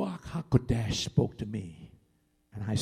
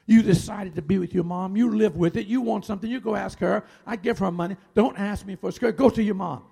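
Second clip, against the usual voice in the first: loud, raised-pitch scolding tirade; angry yelling; 5 semitones higher, 6 dB louder than usual. Retold or imitated. Dad yells at daughter in the store, angry rebuke. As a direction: imitate a father lashing out. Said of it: "turned around and yelled at her".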